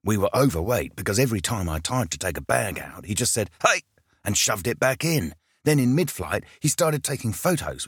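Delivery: a hint of a New Zealand accent, tense; lightly voiced pilot, words through clenched teeth. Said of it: "his New Zealand accent being pushed through clenched teeth".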